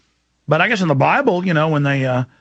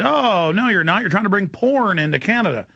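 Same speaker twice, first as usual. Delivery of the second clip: mock accusing; 4 semitones higher than usual. Border officer accusing a detained traveler, mock-accusing. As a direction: imitate an officer making an accusation.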